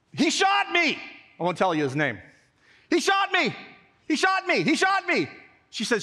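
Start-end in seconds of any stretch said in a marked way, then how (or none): 0.1-1.0 high, urgent tattling cry; indignant wail. Retold or imitated. Hurt boy running inside to tell mom, indignant wail. 2.9-5.3 high, insistent repeated cry; indignant wail. Retold or imitated. Hurt boy telling mom, indignant wail.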